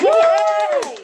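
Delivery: 1 cheer. Real, not acted. Host cheers after the song.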